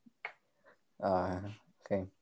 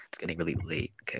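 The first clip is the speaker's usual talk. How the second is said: breathy sultry whisper, higher; 7 semitones higher, 8 dB quieter, faster than usual. Pretend. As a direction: whisper it seductively, all breath. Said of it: "in, like, a nice sultry voice".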